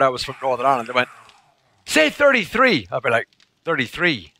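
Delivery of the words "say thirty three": high, slow mock command; hammed-up schoolkid order; retold demanding pupils.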